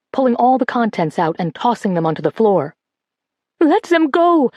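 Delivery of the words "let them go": high, louder defiant cry; cried out. A narrator's reading. Girl bursts in on the soldiers, high defiant shout. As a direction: burst in shouting for them to stop. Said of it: "Colette cried".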